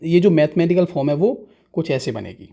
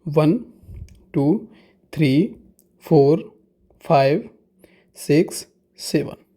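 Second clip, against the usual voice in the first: counting aloud; much slower than usual. Shown as a demonstration. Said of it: "मैं करता हूँ count".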